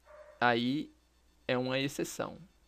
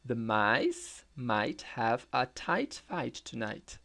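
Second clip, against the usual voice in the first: "The mice might have a tight fight tonight" slowly; slow tongue twister; slower than usual. Shown as a demonstration. Teacher to students, slow twister read. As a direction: spell the twister out evenly. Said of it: "Vejamos um trava-língua".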